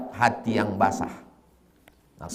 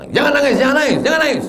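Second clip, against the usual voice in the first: much higher, louder, shrill-free insistent plea; scolding mourner; 5 dB louder, much faster than usual. Retold or imitated. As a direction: hush a crying mourner. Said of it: "datang anak Win takziah".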